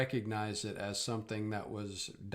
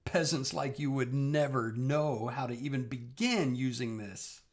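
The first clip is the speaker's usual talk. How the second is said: scornful; 3 semitones higher, 5 dB louder than usual. Acted. Villain scorns the peasants.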